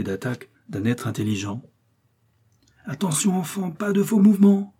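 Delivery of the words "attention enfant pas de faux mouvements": high-pitched warning shout to the crew; urgent cry. A narrator's reading. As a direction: call out a sharp warning, pitch raised. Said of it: "s'écria Korzoff". (cri d'alerte, voix haut perchée)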